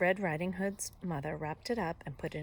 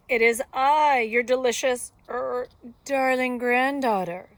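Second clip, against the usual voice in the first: put-on loud, raised wolf-as-girl voice; high voice; 6 semitones higher, 11 dB louder than usual. A narrator's reading. Wolf posing as granddaughter at the door, high voice. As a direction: pitch it up and draw it out. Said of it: "said the wolf in a high voice".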